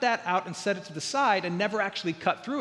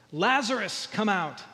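mildly raised calling voice; a measured call, read from the text; crying out. Retold or imitated. Preacher reads Jesus calling Lazarus from the tomb, crying out with restraint. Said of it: "Jesus cried out with a loud voice".

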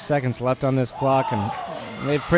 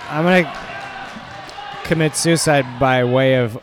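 mock despair shout; 6 dB louder than usual.

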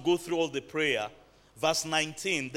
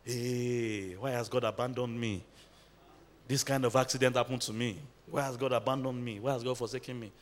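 low, soft mock lament; understated retold wail, kept low and soft; imitated crying lament; 3 semitones lower, 4 dB quieter than usual. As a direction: quietly imitate a man bemoaning his lot. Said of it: "he was now crying".

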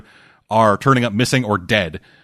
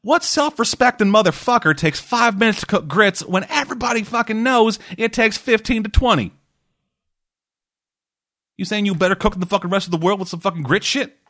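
much higher put-on voice; mock cross-examiner; 10 semitones higher than usual. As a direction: imitate an incredulous lawyer grilling a witness. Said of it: "And he's like".

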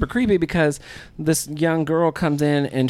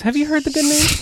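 preacher voice; 10 semitones higher than usual. Acted. Mock evangelist joke.

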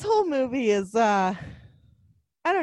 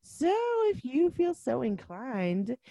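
podcast sign-off; 3 dB quieter than usual. Acted.

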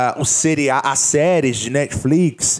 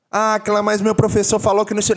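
mock student; 6 semitones higher, faster than usual. Mocking a confused student's objection.

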